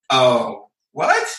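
mock-baffled, pitch leaping up on the question; retold disbelief. Author recalling confusing e-book advice, mock disbelief. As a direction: act out a puzzled double take.

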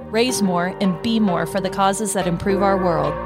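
polished promo read over music; podcast intro read. Acted. Hosts welcoming listeners to the Good Community, podcast intro read. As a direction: deliver the show's intro with even, measured phrasing.

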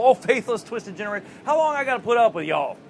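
mock fed-up, down-home complaint; folksy exasperation. Folksy replay of Jesus's rebuke.

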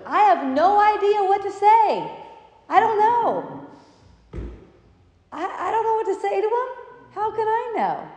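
high, helpless clueless voice; mock bewildered. Acting out being stumped by a sad story, high and helpless. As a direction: play the lost one who has no answer.

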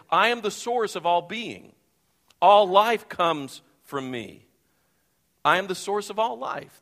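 a preacher booming God's self-declaration; proclaiming God. Acted. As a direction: let God's words ring out, slowing down. Preacher voices God speaking.

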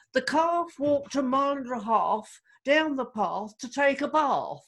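recited school phrase in British English; British accent. Shown as a demonstration. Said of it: "that's the British accent right there".

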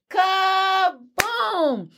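high, stretched-out boom; dramatic sound effect. A narrator's reading. Anansi falls by his own trick, hammed-up crash. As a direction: draw out both syllables like a cartoon crash.

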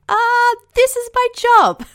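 hammed-up offended expert, drawn out; mock defensive client. Clients who are communication experts.

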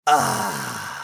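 long, low sigh of relief; contented sigh. A narrator's reading. Osmond sinking into the warm tub, contented sigh. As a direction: let out a long, satisfied ahh. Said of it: "with a contented".

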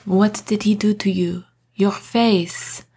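hushed horrified whisper. A narrator's reading. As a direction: breathe it in shock. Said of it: "he whispered".

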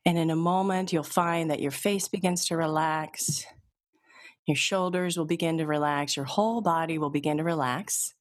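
calm, even hypnotist voice, unhurried pauses; steady guided-relaxation read; hypnosis induction. Acted. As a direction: lull them toward relaxation.

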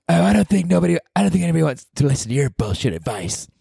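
high, sneering put-down voice; snotty imagined heckler; mocking heckler. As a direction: scoff at him like a bored critic.

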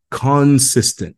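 a light British "consistent", drawn out slowly; British accent. Retold or imitated. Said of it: "in his Britain accent".

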